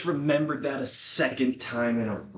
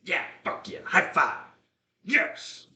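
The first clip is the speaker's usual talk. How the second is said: much higher, hyped-up dog voice; voicing the dog; 9 semitones higher, slower than usual. Voicing his dog hyped about high fives, squeaky and excited. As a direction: play the dog stoked for a high five. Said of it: "He's like".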